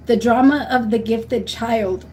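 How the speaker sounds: slow, deliberate book title; slow, emphatic recommendation; slow title read. Shown as a demonstration. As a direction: spell out the title slowly so it sticks. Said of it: "Read the book".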